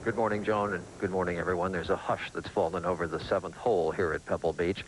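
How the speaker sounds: hushed golf announcer voice. Pretend. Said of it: "I've always wanted to talk like a golf announcer".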